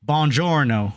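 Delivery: hammed-up Italian accent on "Buongiorno"; bad Italian accent. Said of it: "The most horrible Italian accent".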